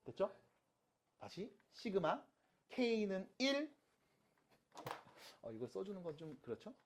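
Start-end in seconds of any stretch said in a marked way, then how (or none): 1.7-3.8 very slow read-aloud of notation; teacher slowly modelling how to read it; reading demonstration. Shown as a demonstration. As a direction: stretch out each piece of the formula. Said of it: "이렇게 읽으시면 돼요".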